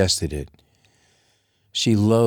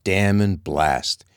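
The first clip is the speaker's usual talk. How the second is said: slow, grumbling curse; muttered curse; slower than usual. Acted. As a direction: curse it under strain. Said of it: "he snarled".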